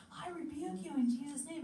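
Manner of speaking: mock-stern rebuke; firm rebuke. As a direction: take authority over it. Rebuking spirit.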